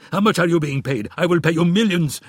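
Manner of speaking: wounded prince pleads with the assassin; pleading. A narrator's reading. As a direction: beg for your life. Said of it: "he pleaded".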